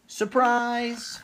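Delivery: high, loud happy cry; excited shout. Acted. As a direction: burst out with the surprise. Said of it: "called out".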